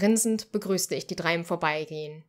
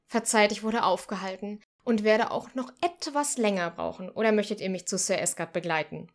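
sugary, higher and louder plea; sweetest voice; 4 semitones higher, 4 dB louder than usual. Acted. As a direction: sweet-talk him into coming along. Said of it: "mit meiner süßesten Stimme".

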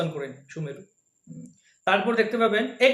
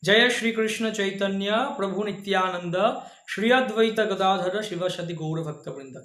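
recited mantra; slower than usual. Shown as a demonstration. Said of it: "আবারও বলছি".

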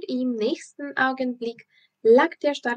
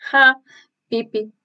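cheering shout; 6 dB louder than usual. Acted. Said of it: "schrien Thomas und Annika".

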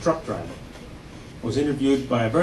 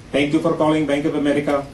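put-on Indian accent. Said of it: "I know you've heard this voice before".

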